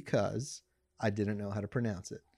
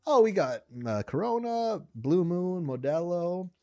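waiter voice; 5 semitones higher than usual. Retold or imitated. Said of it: "So here I go".

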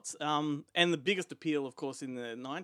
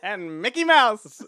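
laughing; 8 semitones higher, 12 dB louder, slower than usual. Pretend. Joins the mock plan.

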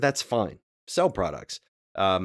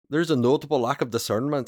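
put-on Scottish accent; 4 semitones higher than usual. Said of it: "like, a Scottish accent".

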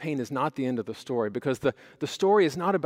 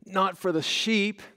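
put-on high, slow child's retort; drawn-out, high-pitched kid voice; imitating young son; 6 semitones higher, slower than usual. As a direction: answer back slowly in a little boy's high voice. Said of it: "in wisdom beyond his years, he said".

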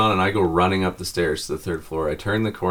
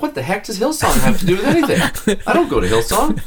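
retold exasperation; 12 semitones higher, 5 dB louder than usual. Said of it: "and I'm like".

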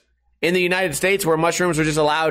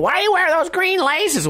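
mocking questioner; 13 semitones higher than usual. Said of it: "A lot of people".

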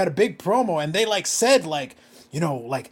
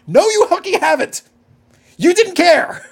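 higher, louder angry snap; heated rant at the wrestler; angry retort; 9 semitones higher, 6 dB louder, slower than usual. Real, not acted. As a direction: shout him down in disbelief. Ranting back at imagined wrestler.

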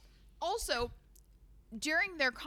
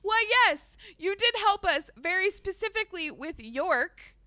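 mock smug Nate; 7 semitones higher, 7 dB louder than usual. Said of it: "He's like".

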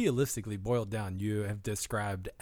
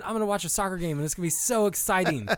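high, loud mock enthusiasm; sarcastic excitement; 7 semitones higher, 4 dB louder than usual. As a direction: fake thrill, laughing through it. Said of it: "That's like me going".

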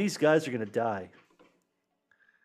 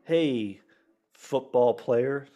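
slow mock calling out; much slower than usual. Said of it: "it could have said, like".

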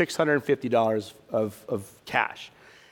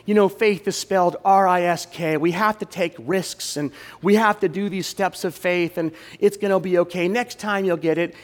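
pastor mode; 3 semitones higher than usual. Retold or imitated. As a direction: slip into a mild pastor's consoling mode. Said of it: "I'm going into pastor mode".

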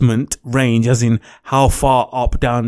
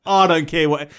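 passionate; 4 semitones higher, slower than usual. Real, not acted. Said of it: "never seen you so passionate".

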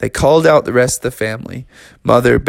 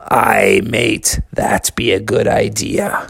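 pirate voice; 3 semitones lower, slower than usual. Acted. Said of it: "He said".

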